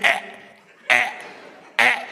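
short strained groans under a heavy weight; mock strain of a lifter at the bench. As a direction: groan like an old man straining to lift. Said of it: "and then he strains again".

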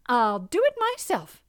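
resolute little hen. A narrator's reading. Little red hen to lazy housemates, resolute. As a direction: declare it firmly.

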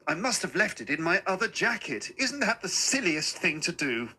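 put-on apologetic old man chiding himself; little old man, self-reproaching. Little man explains lost wallet.

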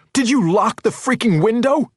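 high, loud furious demand; enraged. A narrator's reading. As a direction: rage at her in panic. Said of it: "Henry raged at her".

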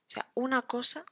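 una cosa lifting high on cosa; high rising una cosa; rising intonation. Shown as a demonstration. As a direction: let cosa rise as an open hint. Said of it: "con la entonación ascendente".

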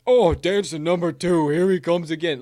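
hammed-up, drawn-out announcement; mock announcing. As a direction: call it out like a showman. Mock announcing the dancing video.

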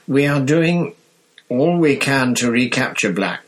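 lightly voiced Minister for Magic; Fudge's voice. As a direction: read it like a politician reassuring the press.

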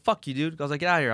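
mock-tough kid telling someone off; retold defiant rebuff. Kid refusing a stranger's ride, retold with mild defiance.

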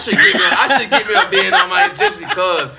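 laughing through the words; chuckling as he talks. Real, not acted. Laughing while joking.

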